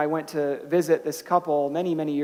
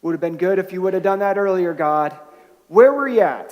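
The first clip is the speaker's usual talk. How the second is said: louder, pointed complaint rising to a cry; complaint to God; 6 dB louder than usual. Retold or imitated. Believers voicing frustration to God, louder mock complaint. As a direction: let the hurt push out at God. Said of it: "you know how our friend felt".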